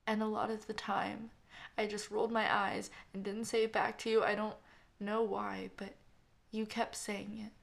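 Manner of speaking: a grieving sister saying goodbye at the pulpit; tearful. Acted. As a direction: tell him through tears, sinking to a whisper. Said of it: "tears were streaming down her face".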